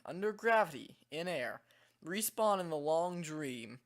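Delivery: measured reading with a slight British lilt; storybook narration, faintly British; light British accent. Real, not acted. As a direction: read it out with a hint of a British accent. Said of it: "weird British accent when I read these".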